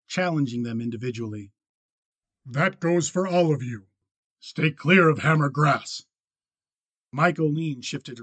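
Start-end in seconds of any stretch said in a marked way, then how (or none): 2.4-6.0 stern warning. A narrator's reading. Miles challenging the table.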